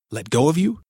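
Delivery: shocked. A narrator's reading. Horrified disbelief.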